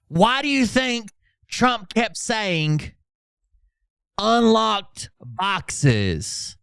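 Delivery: milk each word to make him sound silly; mocking Phil Godlewski. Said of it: "Phil Godlewski says".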